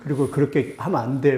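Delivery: a daughter scolding her dad, lightly imitated; daughter nagging. Preacher imitating his daughter nagging him, mild mock scold. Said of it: "막 이러면서 막 한 시간 동안 잔소리하는데".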